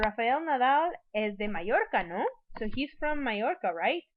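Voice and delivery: "no" and "right" lifted as checking questions; tag question. Shown as a demonstration. Teacher models confirming where Nadal is from, questioning tag. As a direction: state it, then rise on "no" and "right". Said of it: "trying to confirm whether or not".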